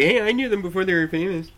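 mock bragging fan.

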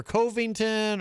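Covington with a long o, like COH-ving-tun; name variant. Retold or imitated. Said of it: "sometimes he says Covington or".

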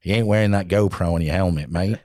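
lightly put-on Aussie accent; Australian accent. Instructor to student pilot about the GoPro, mock Australian accent. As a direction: imitate an Aussie instructor laying down the rule. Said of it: "that's my Australian accent".

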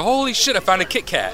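high squeal of mock delight; surprised exclamation. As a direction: gasp like you struck gold. Retold own delighted exclamation.

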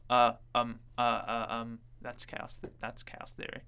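halting impression full of ums and uhs; low-pitched, stammering film-star impression; Jeff Goldblum. Shown as a demonstration. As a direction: repeat yourself and stumble through filler words. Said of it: "Here's another secret to a Jeff Goldblum impression".

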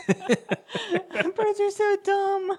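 said through laughter, high and slow; laughing. Real, not acted. Co-host cracking up about the bird cage, laughing. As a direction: let the laugh carry the words.

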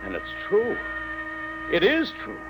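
awed whisper of disbelief; stunned disbelief. Acted. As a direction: let the truth sink in, amazed. Father stunned by bomb news.

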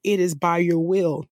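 fervent spoken prayer with pauses; earnest prayer. Real, not acted. Preacher praying aloud for the church, earnest. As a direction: pray aloud over the congregation. Intercedes for childless women.

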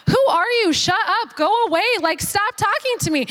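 hammed-up annoyed ticket clerk. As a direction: brush her off, fed up. Clerk snapping at her.

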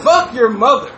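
loud, punchy swearing with a falling end; demonstrated curse. Shown as a demonstration. Trying the curse out for a co-host, loud and punchy. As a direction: hit it hard and a touch high. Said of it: "Like that?".

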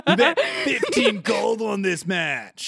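high, slow laughing jock taunt; trash-talk like a cocky gladiator; taunting bro voice. Acted. Buster Bro taunts player.

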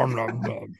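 munch and growl as Pooh; Winnie the Pooh. Pretend. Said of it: "best imitation of Winnie the Pooh".

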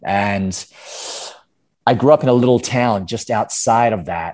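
put-on American storytelling voice; Australian playing an American; American accent. Shown as a demonstration. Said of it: "an American accent for me".

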